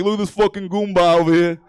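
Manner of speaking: mock New York Italian accent; hammed-up Italian-American talk. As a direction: put on an Italian wise-guy accent. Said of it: "black dudes sounding Italian".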